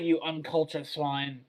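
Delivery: slow, haughty mock scolding; mock snobbery. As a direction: play the offended snob correcting a philistine. Mock scolding over a mispronunciation.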